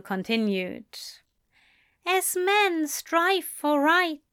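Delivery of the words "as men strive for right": higher, slow tender recital; reciting poem. A narrator's reading. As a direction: savour the words.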